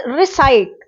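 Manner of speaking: रिसाइट with the weight on साइ; stress on साइ. Shown as a demonstration. Teacher showing word stress to students, रिसाइट stressed on साइ. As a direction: keep री light and lean on साइ in रिसाइट. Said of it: "साई पर ज़्यादा जोर दे रहे हैं".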